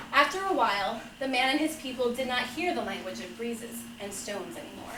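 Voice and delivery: measured picture-book reading; story narration. Acted. Father reading a fable to children, measured storytelling. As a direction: read it like a gentle fable, phrase by phrase.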